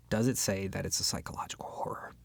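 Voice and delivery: hushed disbelief; skeptical whisper. Acted. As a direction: drop to a doubtful whisper. Doubting the book's genre.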